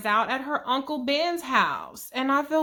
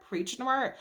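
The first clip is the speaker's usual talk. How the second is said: trailing echo; 6 dB quieter than usual. Retold or imitated. Echo dropping away.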